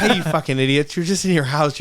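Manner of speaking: amused mock exasperation; mock scolding. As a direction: jokingly chew them out. Scolding parents, laughing.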